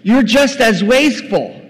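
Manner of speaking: high, loud, incredulous accusation; acted outrage at dad's wastefulness; angry elder son. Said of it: "See what the son is saying".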